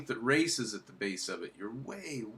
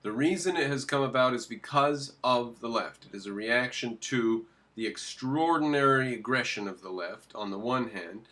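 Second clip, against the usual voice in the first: ordinary delivery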